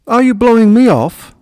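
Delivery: high, loud, offended outcry; indignant shout. A narrator's reading. Hedgehog to his departing rabbit friend, indignant shout. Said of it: "Stan shouted indignantly".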